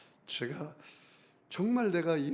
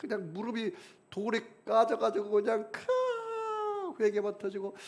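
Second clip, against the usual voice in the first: choked crying; 7 semitones higher than usual. Retold or imitated. Crying on the mountain.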